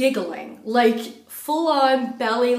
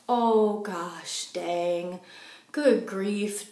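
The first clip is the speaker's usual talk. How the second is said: doubting dismay; 4 dB quieter, much slower than usual. Retold or imitated. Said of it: "coming from a very doubting place".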